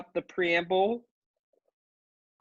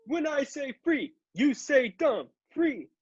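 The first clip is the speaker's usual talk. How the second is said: hyped crowd warm up; 7 semitones higher than usual. Pretend. Call and response with crowd.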